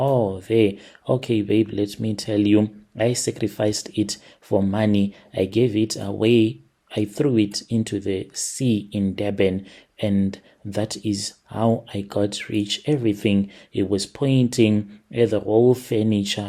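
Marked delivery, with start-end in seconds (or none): none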